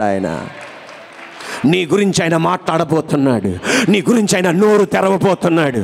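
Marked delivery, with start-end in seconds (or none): 1.6-5.8 insistent, repetitive sermon cadence; preacher building through repeated phrases; fervent preaching. Acted. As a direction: proclaim a promise with mounting urgency.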